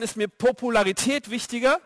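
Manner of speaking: normal talking voice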